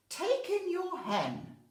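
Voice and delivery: loud, slow advising voice; wise old man. Acted. Wise man advising the old lady, slow loud counsel. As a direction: give the advice with slow weight. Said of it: "said the wise old man".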